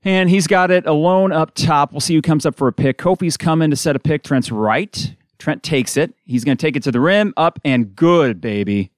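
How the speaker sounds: brisk radio game call; steady basketball announcer rhythm; live play-by-play. Real, not acted. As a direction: call the action as it happens. Play-by-play of a drive.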